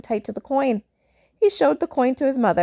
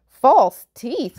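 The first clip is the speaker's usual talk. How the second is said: loud giant roar, higher; 4 semitones higher, 7 dB louder than usual. Acted. Giant roars at Jim's idea of false teeth, loud roar. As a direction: bellow it in disbelief as the giant. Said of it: "roared the giant".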